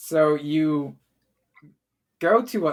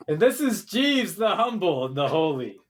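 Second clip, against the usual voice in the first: announcer; 3 semitones higher than usual. Acted. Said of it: "you see the announcer goes".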